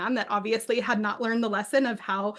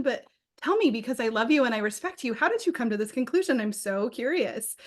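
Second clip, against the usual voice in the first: gentle curious spouse; 3 semitones higher than usual. Retold or imitated. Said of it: "a question of".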